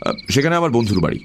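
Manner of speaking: quick, mildly irritated reply; understated impatience; slightly annoyed. Acted. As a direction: answer briskly, a touch put out. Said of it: "একটু বিরক্ত হয়ে বললাম".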